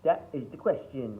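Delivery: broad Cockney, high and loud; extreme Cockney. Shown as a demonstration. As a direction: belt it out in exaggerated Cockney. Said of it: "you did Cockney, it would be".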